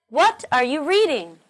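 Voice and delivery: What punched, reading stressed. Shown as a demonstration. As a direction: hit What and reading in What are you reading?. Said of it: "We need to stress what and reading in the question".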